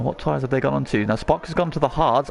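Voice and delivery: normal talking voice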